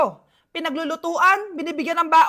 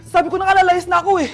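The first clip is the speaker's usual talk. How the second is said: alarmed exclamation; 2 semitones higher, 7 dB louder, faster than usual. Acted. Fleeing the angry mother.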